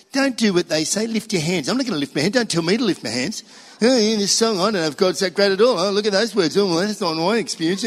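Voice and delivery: lightly voiced sulky inner voice; whiny inner voice. The inner voice resisting the song leader, a touch whiny. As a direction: grumble like a self-pitying child. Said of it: "there's a little voice that says".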